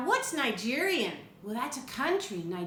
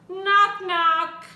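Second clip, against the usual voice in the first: much higher and louder, punchy knocks; 8 semitones higher, 11 dB louder than usual. A narrator's reading. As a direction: bang out the knocks for the kids. Story knock sound, read aloud.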